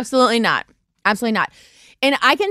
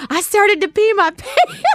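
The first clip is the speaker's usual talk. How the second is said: high quote collapsing into laughter; laughing hard; 6 semitones higher than usual. Retold or imitated. Mom in the store unable to get up, imitated laughing hard. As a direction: voice mom as she cracks up. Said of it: "She was laughing so hard".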